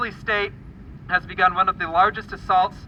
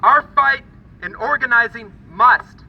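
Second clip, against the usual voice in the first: loud rally speech; 4 semitones higher, 6 dB louder than usual. Real, not acted. Rally crowd address.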